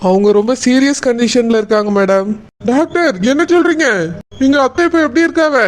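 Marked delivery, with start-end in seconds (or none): 2.7-5.6 higher, startled questions to the doctor; shocked. Acted. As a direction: jolt up in disbelief. Hearing the patient is serious.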